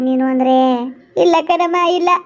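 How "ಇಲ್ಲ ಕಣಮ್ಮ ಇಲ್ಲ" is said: sobbing denial; crying. Acted. Pregnant wife refusing comfort from the elder woman, crying. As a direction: push the words out through tears. Wife weeping while being consoled.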